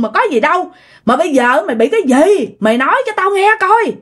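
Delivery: animated, exasperated demand for an answer; insistent parental questioning. Acted. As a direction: press your son to explain himself. Worried grandparents interrogate their son. (gặng hỏi con cho ra lẽ)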